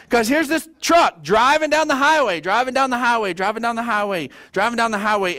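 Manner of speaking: excited retelling. Retold or imitated. Retelling truck scene with repetition.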